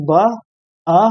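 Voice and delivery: ब and अ each said alone, with a pause between; separate letter sounds. Shown as a demonstration. Teacher counting the sounds in buzz, sounded out separately. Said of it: "तो one क्या हुआ हमारे पास".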